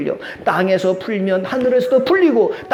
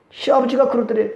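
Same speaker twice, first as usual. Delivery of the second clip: ordinary talk, nothing marked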